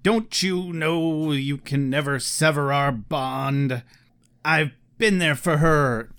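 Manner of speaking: slow creepy villain monologue, ending in a whisper; slow theatrical villain menace. Retold or imitated. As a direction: savour each line like a creepy stalker. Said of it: "Villain speech, villain speech, villain speech".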